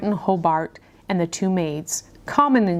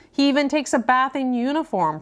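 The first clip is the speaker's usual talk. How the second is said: dry; 6 semitones higher than usual. A narrator's reading. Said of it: "Professor Plum said dryly".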